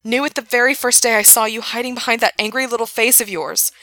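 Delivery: passionate yelling. A narrator's reading. Gerard pleading, yelling on.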